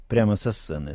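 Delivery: usual speaking voice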